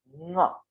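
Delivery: ङ sounded from the throat through the nose; nasal letter demo. Shown as a demonstration. Teacher showing students throat nasal ङ. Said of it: "कंठ और नासिका दोनों के प्रयोग से होगा".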